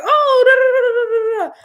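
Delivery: high, loud, laughing babble of the lady on the phone; hammed-up rapid babble with a laugh; mimicking the phone lady. Mocking the Spanish-speaking lady taking the order, loud babble. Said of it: "the lady's like".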